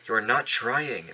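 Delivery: slow, stern scolding; severe. Acted. Driver scolding Gordon on the hill, slow and stern. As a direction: lay it on slowly and sternly. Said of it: "talking to him severely".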